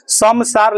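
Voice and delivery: समसार with an M ending the first syllable; M sound in समसार. Shown as a demonstration. Teacher warns class of the wrong form, M sound in समसार. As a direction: say समसार as "sam-saar". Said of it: "गलत हो जाएगा".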